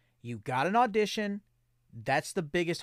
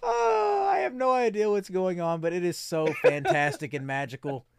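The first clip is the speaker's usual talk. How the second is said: delighted exclamation; 2 semitones higher, 4 dB louder than usual. Real, not acted.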